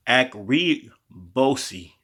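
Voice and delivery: akribosi drawn out slowly, syllable by syllable; slow Greek word. Shown as a demonstration. Teaching the congregation the Greek word, slow and careful.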